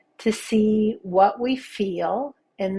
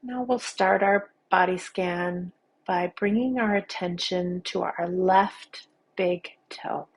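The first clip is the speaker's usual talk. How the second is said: unhurried meditation guide with long pauses; guided meditation. Acted. Teacher guiding listeners through a body scan, calm guided-meditation voice. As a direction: lead them gently through each sensation, leaving space.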